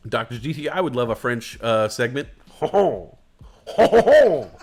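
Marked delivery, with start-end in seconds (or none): 2.5-4.5 loud, high ho-ho laugh; hearty laughter. Real, not acted. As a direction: laugh out loud at your own joke. Laughing at his own joke.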